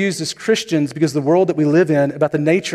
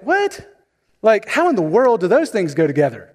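politely baffled; 2 semitones higher than usual. Retold or imitated. Missionary reacting to an odd sandwich offer, politely baffled. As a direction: imitate a polite guest's bewilderment. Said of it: "he was just really confused".

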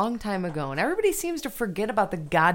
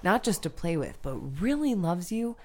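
story reading. Acted. Reading The Velveteen Rabbit to Nick, slow storybook voice. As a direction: read it gently like a bedtime story. Reading book passage aloud.

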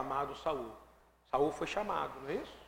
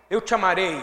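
"Eu te amarei" declared much louder, every word landed; firm declaration; 10 dB louder than usual. Shown as a demonstration. Preacher shows the congregation the right way to say "Eu te amarei", firm and loud. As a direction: proclaim "Eu te amarei" as a decision. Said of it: "não, é assim".

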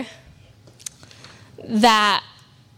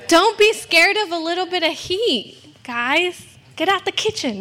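a higher hammed-up tough-talk voice; mock tough preacher; 4 semitones higher than usual. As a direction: playfully act the drill sergeant telling them to toughen up. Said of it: "I don't sound like that".

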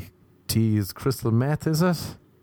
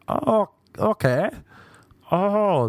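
deflated host; 10 semitones higher, much slower than usual. Retold or imitated.

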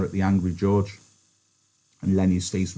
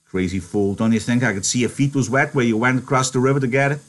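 a touch of scolding; lightly voiced exasperated scold; George, scolding; 4 semitones higher, 3 dB louder than usual. George scolding Lenny about the wet feet, exasperated.

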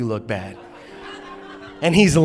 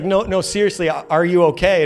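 mock-earnest worried check; insistent concern; 3 semitones higher than usual. Wife checking on her husband, insistent concern. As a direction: press the question with retold concern. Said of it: "first it was concern".

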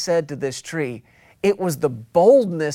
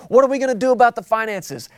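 higher, faster anxious asking; worried question; 4 semitones higher, much faster than usual. Pretend. Preacher voicing a member worried about finances, higher and faster. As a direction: fret quickly about money.

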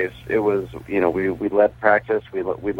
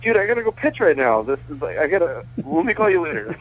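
excited; 9 semitones higher than usual. Retold or imitated. Excited phone call, rushed.

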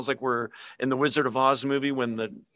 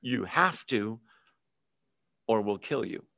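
Antichrist voice; 5 semitones lower, 5 dB quieter than usual. Retold or imitated. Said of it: "he's gonna say".

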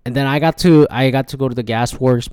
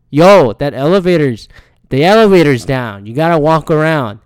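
loud imitation of a man yelling; retold yelling; 3 semitones higher, 6 dB louder than usual. Stranger warning about a dead elevator, mock yell. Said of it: "like, yelling at me".

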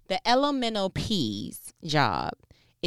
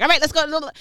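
high, loud, eager go-time call; a newborn ready to go, hammed-up; mock eager newborn; 10 semitones higher, 12 dB louder, faster than usual. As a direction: pop it out like a pumped-up baby. Newborn joke voice.

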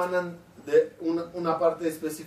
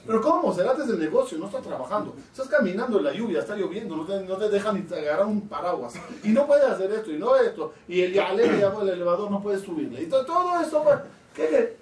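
animated, mock-baffled tirade rising at the end; incredulous protest; 3 semitones higher than usual. Onlooker lists someone's troubles to him, acted incredulity. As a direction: pile up objections in acted disbelief.

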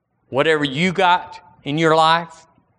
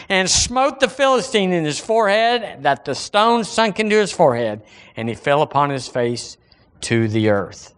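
raised-pitch pulpit reading; scripture reading; 3 semitones higher than usual. Acted. Preacher reading David and Goliath to church, declaimed scripture. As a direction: read the verse out to the congregation.

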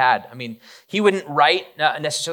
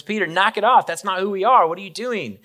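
higher, louder stern scolding; sharp rebuke; 7 semitones higher, 4 dB louder than usual. Acted. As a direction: snap at him to stop. Jesus rebuking Peter.

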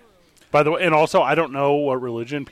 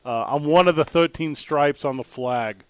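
muddled put-on colonial accent; mixed-up regional accent; New England accent. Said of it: "like, four different accents".

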